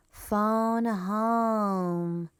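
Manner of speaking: breathy alien whisper, drawn out. A narrator's reading. E T asking to call his family, alien whisper. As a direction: whisper the words slowly like E T. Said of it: "E T said".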